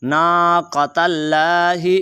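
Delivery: नाक़तल्लाहि with a heavy q and long vowels; slow recitation, full back-throat क़ in नाक़तल्लाहि; thick Qaaf. Shown as a demonstration. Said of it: "काफ मोटा है".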